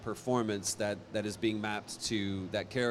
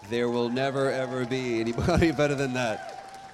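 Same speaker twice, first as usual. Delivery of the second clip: emphatic; 5 dB louder than usual. Real, not acted. Insisting on his childhood heroes.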